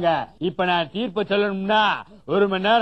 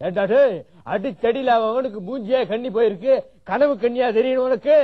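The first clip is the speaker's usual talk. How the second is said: angry shout; 2 semitones higher than usual. Acted. Shooing someone away angrily.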